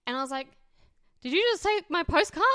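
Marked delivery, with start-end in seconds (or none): 1.2-2.4 mock indignant surprise. Indignant retold question.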